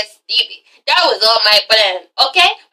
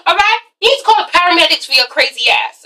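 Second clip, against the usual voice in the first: quick, mocking clapback; sassy insult; 6 semitones higher than usual. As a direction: toss it off fast and catty. Voicing Mimi's insult.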